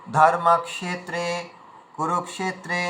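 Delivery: slow, each vowel length clear in ধর্মক্ষেত্রে and কুরুক্ষেত্রে; careful vowel-length demo; clear short and long vowels. Shown as a demonstration. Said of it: "হ্রস্ব দীর্ঘ চিহ্ন লাগিয়েছে ওটা যেন ভালোভাবে".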